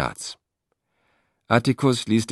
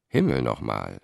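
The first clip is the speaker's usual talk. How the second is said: smiling; 7 semitones lower than usual. A narrator's reading. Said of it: "sagte Cicero lächelnd".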